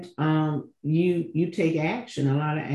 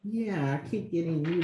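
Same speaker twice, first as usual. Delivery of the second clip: very faint; 3 semitones higher, 7 dB quieter than usual. Real, not acted. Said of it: "Your voice is very faint".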